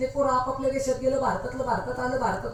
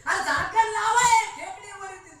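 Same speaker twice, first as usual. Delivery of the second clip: higher, impatient American officer; impatient official; 8 semitones higher, 3 dB louder than usual. Retold or imitated. American officer orders the Indian boy to close the jar, impatient and higher. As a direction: hurry him, a lightly voiced foreign officer.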